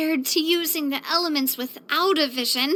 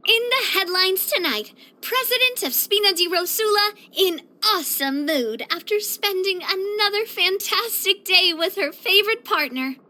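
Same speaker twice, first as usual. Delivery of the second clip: playful headline-reading voice; mock news anchor; 3 semitones higher than usual. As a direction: announce it like breaking evening news. Mock headline about herself.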